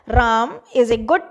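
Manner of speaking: slow "राम is a good", राम given weight; stress on राम. Shown as a demonstration. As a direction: lean on राम, then carry on slowly. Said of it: "एक तो हम राम पर कर रहे हैं".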